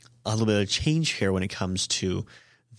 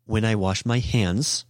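slow example; slower than usual. Shown as a demonstration. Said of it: "if I wanna say".

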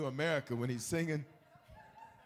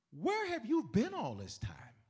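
higher, slow, amazed Pharaoh; 12 semitones higher, 4 dB louder, slower than usual. Retold or imitated. Pharaoh amazed at Joseph, higher and slow. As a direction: marvel at him like the king. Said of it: "Pharaoh's like".

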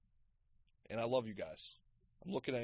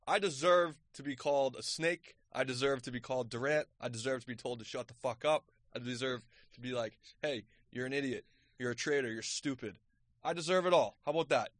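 mock-earnest confession. Real, not acted. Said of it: "taking accountability".

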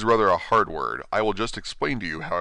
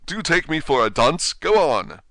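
sharply; 8 semitones higher, 6 dB louder than usual. Acted. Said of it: "said the King sharply".

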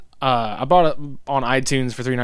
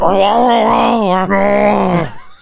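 dinosaur voice; 7 semitones higher, 6 dB louder than usual. Retold or imitated. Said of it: "always talking like".

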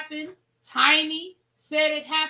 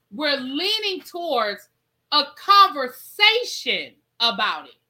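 slow, scornful repeat; slow mocking echo; 2 semitones higher, 5 dB louder, slower than usual. Host mocking the singer's evasive tour answer, slow and scornful. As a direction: drag out "conversation" with disbelief.

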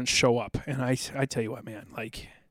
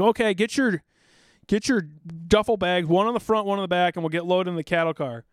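raised-pitch mock orders; imitated drill sergeant; 5 semitones higher than usual. Veteran imitating sergeants ordering recruits to load up, mock commanding. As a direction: lightly call out orders like a sergeant.

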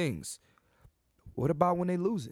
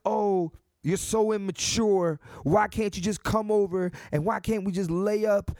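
hammed-up imitation of a complaining woman; mock whiny woman; 5 semitones higher than usual. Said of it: "And then women's like".

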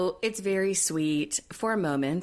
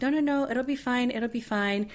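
higher, breezy mock reassurance; lightly hammed-up no-no-no, it's fine; reassuring husband; 6 semitones higher than usual. Husband brushing her off, voiced.

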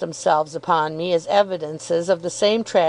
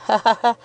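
higher, spoken-out "ha, ha, ha"; acted chuckle; 4 semitones higher than usual. A narrator's reading. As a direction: laugh at your own little joke. Character laughs at own joke.

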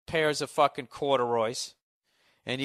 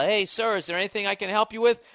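mock clerk; 8 semitones higher, 5 dB louder than usual. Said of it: "he's just like".

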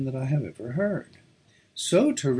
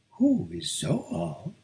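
slow, high, disbelieving echo; astonished repeat; 8 semitones higher, much slower than usual. A narrator's reading. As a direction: stretch it out, high and slow, in amazement. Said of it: "she repeated".

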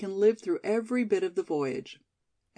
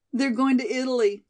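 louder, higher sudden outburst; burst out; 5 semitones higher, 5 dB louder than usual. Acted. Judy finally tells Molly her secret, bursting out louder. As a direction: blurt it out at last. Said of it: "she burst out".

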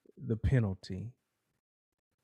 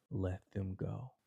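"Let them go" much softer, almost breathed; soft plea; 3 semitones lower, 7 dB quieter than usual. Acted. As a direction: let "Let them go" fall away gently and quietly. Jesus ends his plea to the judge.

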